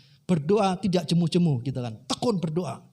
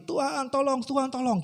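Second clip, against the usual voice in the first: mock crying out; 7 semitones higher than usual. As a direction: repeat the plea as a mild mock yell. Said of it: "Dia teriak-teriak lagi". (pura-pura berteriak minta tolong)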